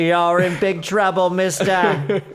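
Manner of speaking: slow, mock stern telling-off; mock stern scolding. Teasing the pretend lawyer, hammed-up stern. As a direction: wag a finger at him playfully.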